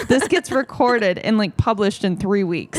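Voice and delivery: slowed right down, spelling it out; slow patient explaining. Retold or imitated. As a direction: explain it slowly to someone who doesn't get it. Explaining podcast to dad slowly.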